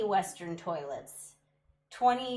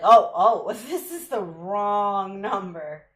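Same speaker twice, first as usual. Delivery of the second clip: startled caller; 10 dB louder, slower than usual. Retold or imitated. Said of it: "immediately was like".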